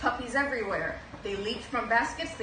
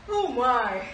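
yawning; 2 semitones higher, 7 dB louder than usual. Acted. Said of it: "yawned Purdy".

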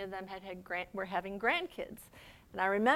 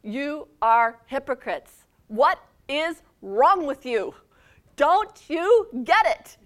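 loud, high, slow exasperated yell; yelling Jesus; 5 semitones higher, 13 dB louder, slower than usual. Acted. Jesus yelling at the hypocrites, loud, slow and exasperated. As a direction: drag out every word in fury. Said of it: "he starts yelling at them".

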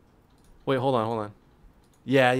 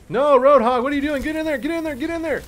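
excited yelling; 13 semitones higher, 6 dB louder than usual. Real, not acted. Yelling at teammate in game.

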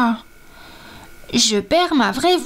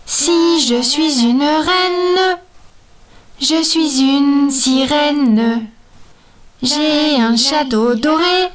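proud mermaid; 2 semitones higher, 4 dB louder than usual. Acted. Mermaid insists she is queen.

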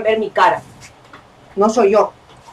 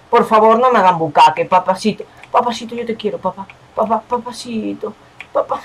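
mock pleading; 4 dB quieter than usual. Sweet-talking begging to viewers.

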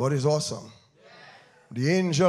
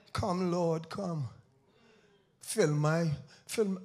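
hushed, softer imitation of a pleading prayer; mock soft prayer; 3 semitones lower, 8 dB quieter, slower than usual. Preacher mimics the congregation praying, softly. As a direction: breathe it like a half-hearted churchgoer.

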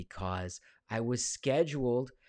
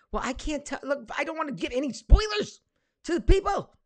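playful secretive; 9 dB louder than usual. Pretend. Teasing refusal to give spoilers.

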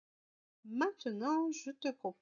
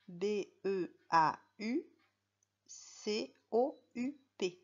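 slow spelling out. Shown as a demonstration. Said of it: "regarder comment on fait en attaché".

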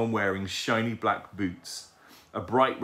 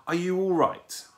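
higher-pitched concerned lady; sweet young voice; 10 semitones higher, 3 dB louder than usual. A narrator's reading. Young lady to fallen owlet, sweetly. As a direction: ask with sweet, light concern. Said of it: "said a sweet young voice".

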